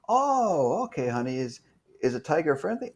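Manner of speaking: leicht gespielte besorgte Mutter, höher einsetzend; worried mom. Retold or imitated. Mom voiced in phone call.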